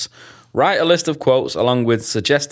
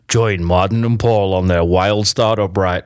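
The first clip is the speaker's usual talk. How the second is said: voiceover voice; 3 semitones lower than usual. Acted. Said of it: "let's do this in the V O voice".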